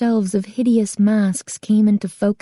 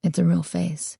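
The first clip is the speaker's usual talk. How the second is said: quiet; 2 semitones lower, 5 dB quieter than usual. A narrator's reading. Owner revealing truth.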